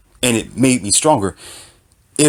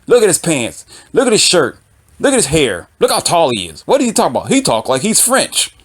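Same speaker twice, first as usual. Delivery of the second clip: mocking commenter; 2 semitones higher than usual. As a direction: mimic a petty commenter picking him apart. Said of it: "somebody like".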